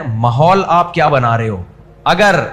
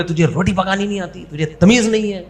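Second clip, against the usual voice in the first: mock scolding yell; 3 semitones higher, 3 dB quieter than usual. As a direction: imitate a mother-in-law snapping at her daughter-in-law. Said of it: "ایک تو چیخ کو بولے". (ساس کی نقلی ڈانٹ، ذرا اونچے سُر میں)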